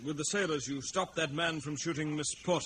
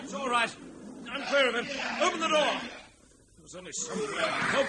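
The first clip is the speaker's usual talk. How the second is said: tense and urgent; 11 semitones higher, 5 dB louder than usual. Acted. Struggling during the lion attack.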